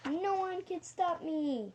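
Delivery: Mad Hatter. A narrator's reading. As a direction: call it out in defiant triumph. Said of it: "shouted the Mad Hatter".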